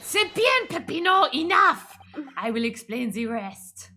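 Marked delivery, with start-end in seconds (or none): 0.0-2.0 put-on high, loud French-accented interruption; loud French-accented cut-off. Character cutting off a rambling partner.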